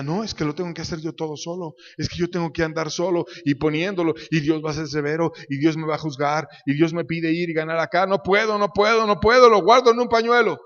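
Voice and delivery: fretful, builds to a desperate cry; anxious servant voice. Retold or imitated. A fearful servant pleading he cannot.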